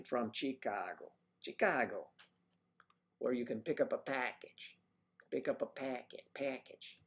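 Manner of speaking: lightly put-on Chicago accent. Greeting a viewer from Chicago, in a put-on Chicago accent. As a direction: play up the local Chicago vowels. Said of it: "Isn't that that accent?".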